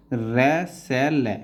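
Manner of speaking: slow, spaced dictation of each stroke; syllable by syllable. Shown as a demonstration. Teacher to student, spelling each stroke slowly. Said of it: "teacher spelling out shorthand strokes".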